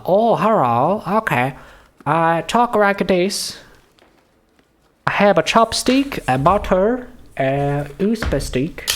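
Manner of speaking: high, exaggerated mock Asian accent; caricatured Asian accent. Reader testing a librarian's voice, caricatured Asian accent. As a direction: test a crude Asian accent, pitched high. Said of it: "do that as general racist Asian accent".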